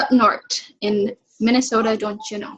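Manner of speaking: lightly hammed-up Minnesota accent. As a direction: play up a folksy Minnesota accent. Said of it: "that was a really terrible accent".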